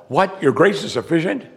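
high, disbelieving rising question; incredulous. Retold or imitated. Paul hearing God's answer, incredulous and rising. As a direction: voice Paul's stunned what, questioning grace.

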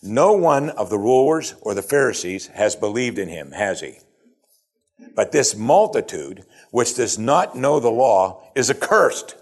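haughty, emphatic pronouncement; religious pride. Acted. Pharisees dismissing the multitude, proud disdain. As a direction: look down on the ignorant masses. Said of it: "shows the religious pride of these men".

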